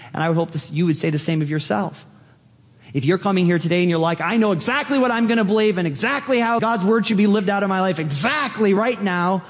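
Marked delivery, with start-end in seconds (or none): 4.2-9.4 higher, quicker mock know-it-all; cocksure, rushing through in a higher pitch; arrogant. Pastor voicing an overconfident churchgoer, mock arrogant. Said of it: "that's pretty arrogant".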